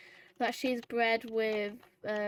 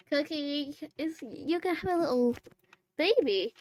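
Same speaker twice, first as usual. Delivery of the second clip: higher, cooing to the mare; 5 semitones higher, 5 dB louder than usual. Real, not acted. Speaking to pregnant Cookie, higher cooing baby talk.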